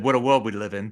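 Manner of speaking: WORLD in a Boston accent, R dropped. Shown as a demonstration. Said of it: "he actually would have said".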